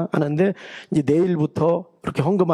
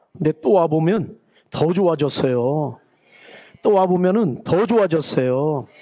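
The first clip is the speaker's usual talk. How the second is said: building praise; 3 dB louder than usual. Acted. Praising the church growing better.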